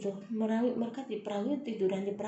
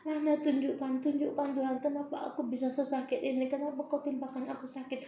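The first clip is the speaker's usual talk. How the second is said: pained plea; 5 semitones higher than usual. Retold or imitated. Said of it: "segala itu aku tanya sama Tuhan".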